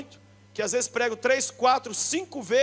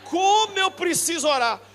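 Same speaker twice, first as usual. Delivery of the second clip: lazy agreeing Brazilian. Retold or imitated. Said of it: "Ele fala".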